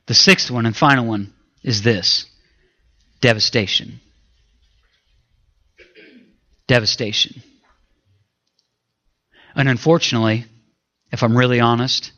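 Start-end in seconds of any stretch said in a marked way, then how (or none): 3.2-7.4 hushed repeat. Real, not acted. Preacher repeats final stage word.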